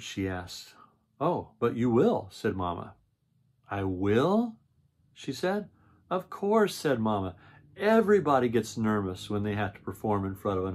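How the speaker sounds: storybook read-aloud voice; reading to children. A narrator's reading. Reads the picture book aloud.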